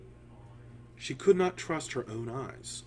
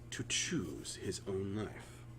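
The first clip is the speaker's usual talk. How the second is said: hushed whisper; 3 semitones lower, 7 dB quieter, slower than usual. A narrator's reading. Narration sinks to a hush.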